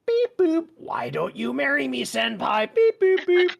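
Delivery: high, squeaky robot voice with beeps. Pretend. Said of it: "It's called the Little Bee Bot".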